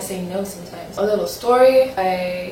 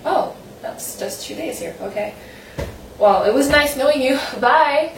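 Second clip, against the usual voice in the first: fake cheery goodbye; 6 semitones higher than usual. Acting goodbye to tourist.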